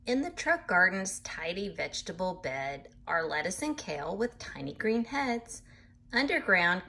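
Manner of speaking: lively storybook reading voice; animated picture-book narration; reading to children. A narrator's reading. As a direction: read it bright and sing-song for little listeners. Reads book aloud to children.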